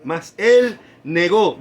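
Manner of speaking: mas él negó, drawn out slowly with weight on él; slow, weighty emphasis on él negó; preacher stressing the denial slowly. Shown as a demonstration.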